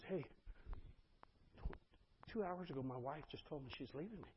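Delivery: halting and soft, imitating a man in tears; retold tearful confession. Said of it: "and just starts crying".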